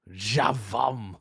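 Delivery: Klingon word, carefully attempted. Shown as a demonstration. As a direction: try it in a Klingon accent. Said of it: "try my best to say these in Klingon".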